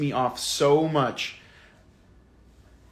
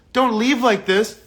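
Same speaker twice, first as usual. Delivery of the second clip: pleading quote; 6 semitones higher, 5 dB louder, slower than usual. Retold or imitated. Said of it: "he acted like he was wronged".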